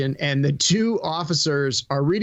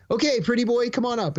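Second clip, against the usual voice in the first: retold cop; 7 semitones higher than usual. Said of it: "he goes".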